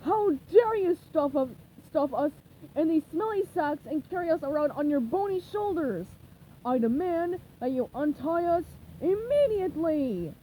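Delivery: loud, outraged demand; indignant Squidward. Acted. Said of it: "in no mood for manners".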